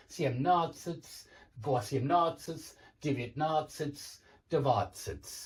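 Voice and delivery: одиннадцать, двенадцать said slowly, each stressed syllable marked; slow, careful teaching count with clear stress; stress on the -надцать endings. Shown as a demonstration. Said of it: "I've put the stress, it moves here".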